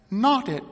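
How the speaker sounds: "knot it" set apart after a pause, high; pause, then land "knot it" pointedly; changed voice on last words. A narrator's reading. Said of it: "the change that came into her voice on that last".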